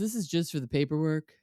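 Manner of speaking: dopey-sounding voice. Recapping a reality show, quoting the husband: imitating Matt, dumb voice. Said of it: "you like my Matt impression".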